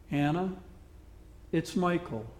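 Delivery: quietly, with a hint of a whisper; old man gently greeting his lost love, softly; soft, near whisper. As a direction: say her name softly, barely above a hush. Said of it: "said softly, almost in a whisper".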